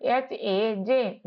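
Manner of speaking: slow letter-by-letter; slow spelling. Shown as a demonstration. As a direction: dictate each letter slowly. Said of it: "कैसे होगा". (धीरे-धीरे अक्षर)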